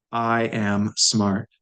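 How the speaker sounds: I am smart said slowly, word by word; slow, careful. Shown as a demonstration. Teacher models the phrase for students, slowly. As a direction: spell it out slowly for learners. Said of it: "now we wanna say".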